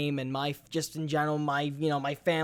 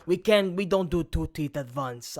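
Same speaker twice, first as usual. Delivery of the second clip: miserable dentist; 3 semitones lower than usual. Retold or imitated. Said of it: "He goes".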